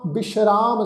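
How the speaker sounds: ਬਿਸ਼ਰਾਮ with sh, not s; dotted sassa, sh. Shown as a demonstration. Teacher showing the dotted letter, ਬਿਸ਼ਰਾਮ with a sh sound. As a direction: say ਬਿਸ਼ਰਾਮ as bish-raam. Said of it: "ਸੱਸੇ ਪੈਰ ਬਿੰਦੀ ਲਗਾ ਕੇ".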